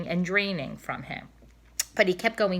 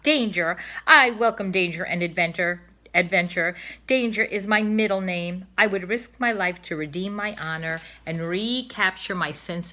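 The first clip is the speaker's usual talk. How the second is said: louder, proud heroic swan; a cob bragging about danger and honor; boastful old cob; 4 dB louder than usual. Acted. Cob boasts of his courage.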